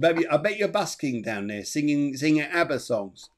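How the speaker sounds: laughing. Real, not acted. Joking about subway multitasking.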